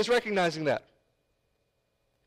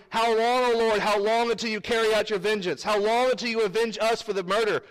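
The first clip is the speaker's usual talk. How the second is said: crying out; 3 semitones higher than usual. Acted.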